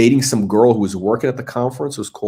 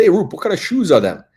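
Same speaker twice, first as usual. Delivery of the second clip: put-on fast, high-pitched Philadelphia accent; 8 semitones higher than usual. Retelling what a man from Philadelphia said to Rupert Murdoch, Philadelphia accent. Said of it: "He's got that kind of same accent".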